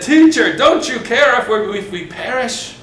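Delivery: frightened disciples begging Jesus over the storm, high and urgent; panicked plea. Acted.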